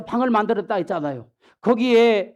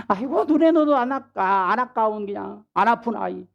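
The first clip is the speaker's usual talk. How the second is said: put-on a light coo over a beloved baby; mock doting grandma cooing; doting grandparent; 2 semitones higher than usual. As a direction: gush over the grandchild, pitched up a little. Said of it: "막 그러면서 이렇게 하잖아요".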